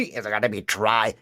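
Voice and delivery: dry. Shown as a demonstration. Demonstrating each named voice placement.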